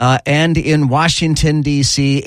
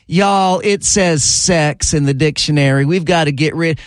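put-on lampoon the locals in a Southern accent; mocking an Escambia County official in Southern accent; 4 semitones higher than usual. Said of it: "they talk with a Southern accent like that".

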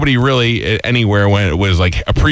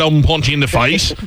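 a higher, hammed-up English accent; mock English accent; 5 semitones higher than usual. Host mocks guest's English accent, higher pitched. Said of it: "That's a full".

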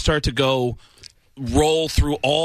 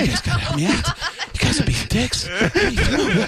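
higher, laughing street-guy complaint; Mark Wahlberg impression; 8 semitones higher than usual. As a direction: whine at the guys like Wahlberg. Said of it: "Mark Wahlberg".

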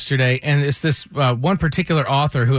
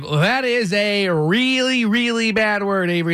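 stern dad warning; 6 semitones higher than usual. Retold or imitated. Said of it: "and I was like".

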